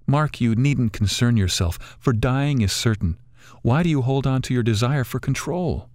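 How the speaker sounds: put-on a kindly old bird coaxing them to enjoy it; wise old bird. Bird answers calmly.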